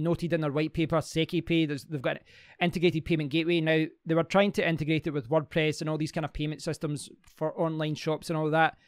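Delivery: ordinary talk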